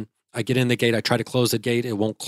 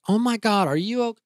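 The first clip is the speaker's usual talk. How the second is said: much higher, worried mock-female voice; imitating alarmed wife; 12 semitones higher than usual. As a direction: rush out fearing the worst, pitched way up. Wife fears someone had heart attack.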